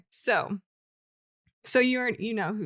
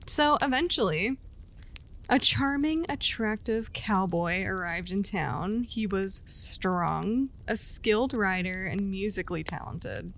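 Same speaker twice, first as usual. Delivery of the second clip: steady storyteller voice reading a legend; storytelling narration. A narrator's reading. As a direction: tell it like a campfire legend.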